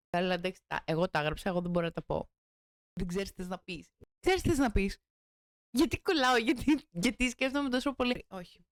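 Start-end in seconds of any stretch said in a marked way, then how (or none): 2.9-5.0 louder, stern pep talk to herself; self-scolding. Real, not acted. Scolding herself after fumbling lines, stern and loud. 5.7-8.3 much louder, exasperated; frustrated outburst. Real, not acted. Frustrated at herself for freezing on camera, loud exasperation.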